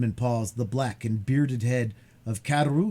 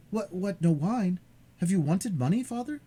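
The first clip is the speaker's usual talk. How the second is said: put-on alarmed young man; 9 semitones higher than usual. Dantès alarmed.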